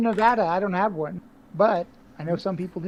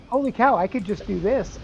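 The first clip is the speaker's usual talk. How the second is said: excited; 4 semitones higher than usual. Retold or imitated. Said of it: "I'm like".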